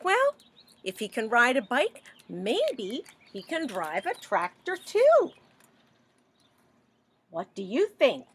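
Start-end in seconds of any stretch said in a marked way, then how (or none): 0.0-5.3 lightly voiced skeptical animals; animal chorus voice.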